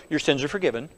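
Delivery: spoken softly, as to a neighbour; hushed demonstration; soft demo line. Shown as a demonstration. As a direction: say it quietly to the person beside you. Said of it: "turn to the person beside you and say this".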